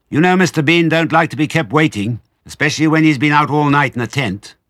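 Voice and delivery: high, loud, nagging holler; shrill household scolding; woman calling out. A narrator's reading. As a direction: call it down to someone in another room. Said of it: "the voice called".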